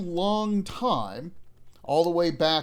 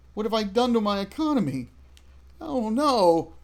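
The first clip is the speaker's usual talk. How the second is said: mock panic; 6 semitones higher than usual. Player reacting to game crisis.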